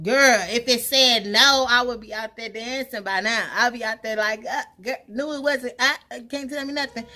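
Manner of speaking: high, loud and exasperated; half-laughing outburst to auntie. Retold or imitated. Answering her auntie, loud and exasperated.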